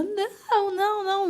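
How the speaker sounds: gritos agudos imitando a mãe em desespero; imitação contida da mãe gritando não; mãe desesperada. Retold or imitated. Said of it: "ela fazia assim". (não repetido bem agudo, sem volume, imitando a dor)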